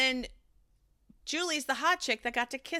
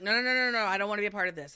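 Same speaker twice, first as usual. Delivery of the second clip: mild mock freak-out; much faster than usual. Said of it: "freaks out".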